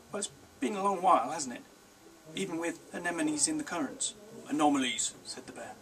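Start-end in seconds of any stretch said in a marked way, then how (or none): 0.1-4.1 put-on boy's voice. A narrator's reading. Boy voiced. 4.5-5.1 defiant correction. A narrator's reading. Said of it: "defiant pose".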